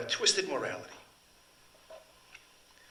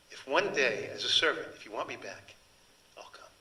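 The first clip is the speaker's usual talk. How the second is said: steady, then dropping to a near hush; resigned, fading farewell of the woman; 4 dB louder than usual. Acted. Servant woman taking leave of the Marquis, resigned then hushed. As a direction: let the last words sink away.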